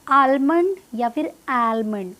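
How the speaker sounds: आलमंड with the L fully sounded; two slow wrong takes of आलमंड, first aal then ael; common wrong almond. Shown as a demonstration. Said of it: "क्या बोलते हैं लोग इसे".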